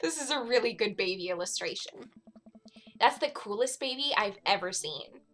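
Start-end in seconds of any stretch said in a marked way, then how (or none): 0.0-1.3 loud, high, drawn-out cooing; hammed-up doting delight; gushing. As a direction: gush slowly over an adorable baby. Voiced gushing over baby photo.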